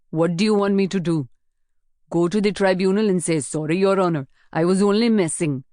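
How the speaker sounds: sarcastic and defiant; defiant young guard. Acted. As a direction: throw the mock apology back at them with sarcasm. Garda Wasan's defiant retort.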